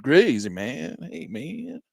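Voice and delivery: lightly voiced laid-back hippie; easy, dreamy stoner drawl. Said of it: "Think I've been smoking weed".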